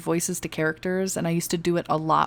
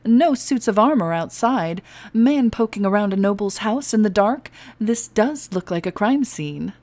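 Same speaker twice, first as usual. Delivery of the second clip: mocking; 3 semitones higher, 4 dB louder than usual. Pirate mocking guard.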